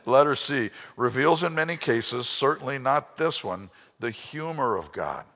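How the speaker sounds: preaching loud. Real, not acted.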